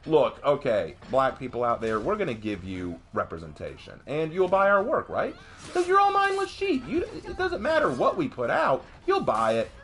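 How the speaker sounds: condescending mock sales pitch with a laugh; mocking pandering voice. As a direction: parody the smug studio. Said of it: "basically saying".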